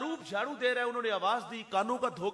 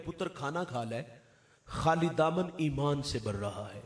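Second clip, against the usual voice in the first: sweet kind words; 6 semitones lower than usual. Retold or imitated. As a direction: invite him kindly, like a father. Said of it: "صرف دو میٹھے بول".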